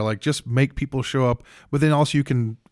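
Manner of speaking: ordinary delivery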